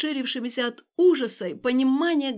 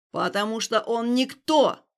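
loud, slow angry yell; shouting; 6 dB louder, slower than usual. Acted. Stas shouting at Alina over the stranger. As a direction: bellow it at her. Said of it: "крикнул Стас".

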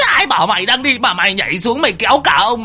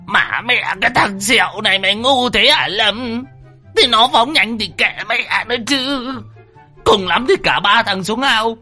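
put-on high, aggrieved old man complaining; high exasperated rant; whining scold; 10 semitones higher than usual. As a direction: berate Lâm, lamenting.

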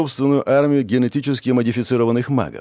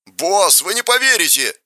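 joyful yell; 7 semitones higher than usual. A narrator's reading. The bandit yells joyfully to his boss. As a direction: burst out with delight. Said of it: "радостно заорал бандит".

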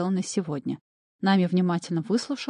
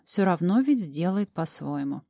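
plain reading voice

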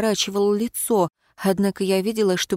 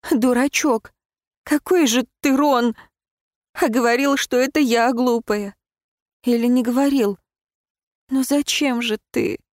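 tearful; 4 semitones higher than usual. Acted. Heroine crying, hugging Ron.

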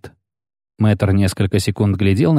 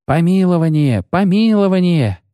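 crowd roar; 9 semitones higher than usual. A narrator's reading. Crowd chants for a pardon, roaring. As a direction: roar it like an angry mob. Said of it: "зарычала толпа".

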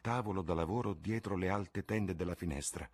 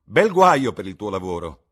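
a louder teasing jab from a worldly lord; amused Lord Henry; 4 semitones higher, 17 dB louder than usual. A narrator's reading. Lord Henry mocking Basil's work, loud and amused. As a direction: toss the joke lightly at the painter.

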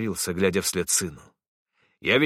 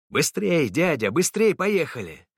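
put-on much higher, eager child's cry; a thrilled kid urging faster; excited boy begging; 7 semitones higher than usual. A narrator's reading. Boy Samat begging the driver to go faster, excited. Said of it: "просил он".

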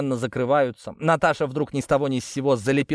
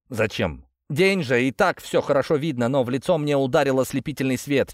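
plain reading voice

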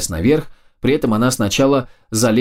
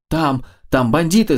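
gasping and higher, tripping over Там, там; breathless, frightened; 6 semitones higher than usual. A narrator's reading. Mia runs back down to warn the others: breathless, scared. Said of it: "задыхаясь от волнения".

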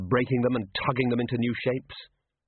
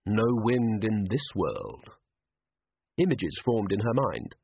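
ordinary delivery, nothing marked

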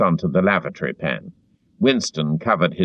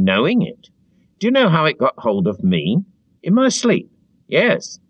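higher, earnest fretful chap; eager confessing Parsons; 6 semitones higher than usual. A narrator's reading. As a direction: confide the whole story breathlessly.

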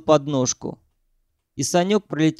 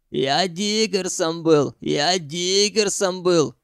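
mocking mimicry; 3 semitones higher, slower than usual. Ukhan mocking Sanyok, mildly mimicking. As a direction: mimic him, slow and sneering. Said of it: "передразнил он его".

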